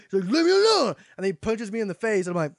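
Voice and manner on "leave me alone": very high, loud slurred mock protest; drunken yell. Drunk about to punch his helper, slurred imitated yell.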